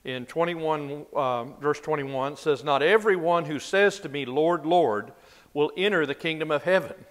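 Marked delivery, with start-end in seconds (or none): 2.6-7.1 raised, louder reading voice; scripture reading. Acted. Teacher reading Jesus' words to a Bible class, raised scripture reading. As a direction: read the verse out with weight.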